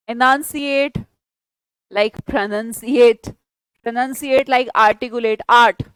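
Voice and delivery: pronunciate and articulate drawn out very slowly; slow dictation. Shown as a demonstration. Teacher dictating word links to students, very slowly. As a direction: let each word hang for the class to copy. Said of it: "teacher modelling word chain".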